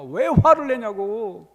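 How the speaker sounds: loud, drawn-out rebuke; scolding. Retold or imitated. Preacher voicing Jesus rebuking James and John, loud scolding. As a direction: scold them loudly, stretching the words. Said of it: "야단을 치십니다".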